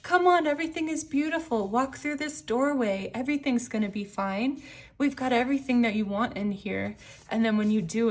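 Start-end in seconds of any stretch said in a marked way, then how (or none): 0.0-7.0 luring voice. Retold or imitated. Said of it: "It's like".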